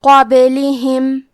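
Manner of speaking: "قابلہم" with the silent ba bounced in a slight echo; qalqalah on ba. Shown as a demonstration. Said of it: "تو ہم حرف البا کو ہلاتے ہوئے یہ کلمہ کو پڑھیں گے". ("قابلہم" میں با کو قلقلہ سے ہلا کر)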